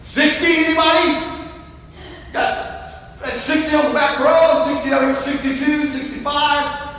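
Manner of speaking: auctioneer. Pretend. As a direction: take bids like an auction. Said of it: "Feel like an auctioneer".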